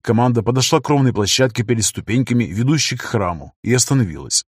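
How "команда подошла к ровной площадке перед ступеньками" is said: plain reading voice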